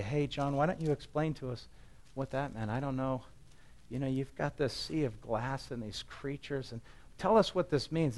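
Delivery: gently quizzing, at a loss; puzzled questioning. Acted. Voices puzzled readers questioning John.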